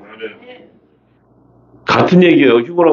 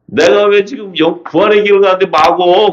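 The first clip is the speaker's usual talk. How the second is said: mock gamecock quarrel; 7 semitones higher than usual. Imagined hot-tempered Jesus on the resurrection road, mock quarrelsome. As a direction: play-act picking a fight in a raised pitch. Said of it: "싸움닭처럼 싸웠을 텐데".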